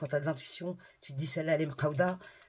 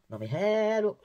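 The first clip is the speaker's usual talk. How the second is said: énervée; 3 semitones lower, 4 dB louder than usual. Real, not acted. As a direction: burst out in indignant disbelief. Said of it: "je te jure, je suis énervée". (énervée, exclamations indignées)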